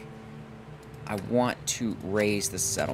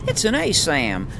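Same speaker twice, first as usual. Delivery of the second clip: weaker Jake imitation; 5 semitones higher, 3 dB louder than usual. Streamer retrying the Jake voice, less sharply. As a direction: try Jake again, toned down. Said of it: "I think I did better the first time".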